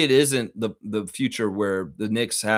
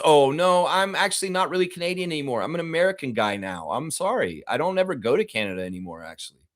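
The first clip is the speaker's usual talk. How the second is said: higher, quick apologetic celebrity voice; mock Michael J. Fox; 5 semitones higher, faster than usual. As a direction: hurry through the excuse. Imagined Michael J. Fox reply.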